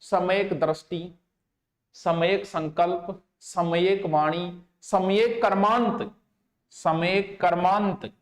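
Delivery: सम्यक संकल्प drawn out slowly, repeated; slow dictation. Shown as a demonstration. Teacher dictating the eightfold path slowly to note-takers. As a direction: dictate each term slowly and clearly. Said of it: "दो तीन चार बार ही खातर बोलूं".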